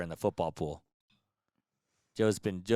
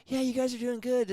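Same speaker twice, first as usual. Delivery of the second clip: imitating Dan, pitched way up; high put-on voice. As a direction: quote him in a high squeaky voice. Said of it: "He's like".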